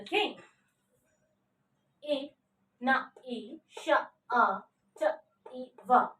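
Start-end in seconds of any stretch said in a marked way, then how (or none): 2.1-6.1 "I, na, I, sha" as short separate sounds. Shown as a demonstration. Teacher showing how to pronounce initiative, sound by sound up to "va". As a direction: isolate each sound through to "va", pausing between. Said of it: "How to pronounce it?".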